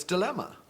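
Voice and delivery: "Dilemma" said with a long die-, DIE-lemma; posh dilemma. Shown as a demonstration. Speaker showing upper class pronunciation, "Dilemma" as die-lemma. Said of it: "That's how we say it".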